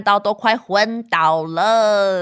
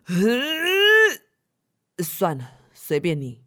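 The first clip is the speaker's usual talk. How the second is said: mock giving up; much slower than usual. Nanny giving up.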